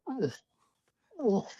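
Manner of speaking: short huffed animal grunt; imitated moose blowing air. Hunter imitates the moose walking at him, blowing air. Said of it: "blowing air".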